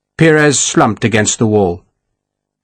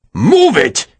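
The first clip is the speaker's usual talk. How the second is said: higher, a mild mock outburst; incredulous shout; 6 semitones higher than usual. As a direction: throw his suggestion back at him. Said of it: "Ferragus shouted".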